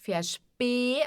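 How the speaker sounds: Versp- with the S as a "sh" before P; SP como "chp". Shown as a demonstration. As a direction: say Versp- with a clear "shp". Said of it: "S antes de P, som de X". (Versp- com S soando como X antes do P)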